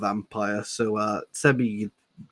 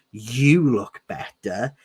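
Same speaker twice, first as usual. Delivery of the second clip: accusing; 4 dB louder, much slower than usual. Acted. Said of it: "he accused".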